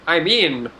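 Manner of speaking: put-on half-hearted German accent; a lightly put-on German accent. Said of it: "That's my great German accent".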